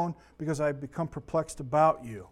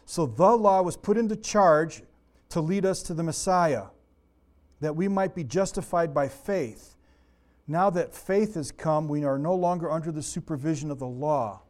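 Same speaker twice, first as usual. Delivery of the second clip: scripture reading. Acted. Reads scripture aloud.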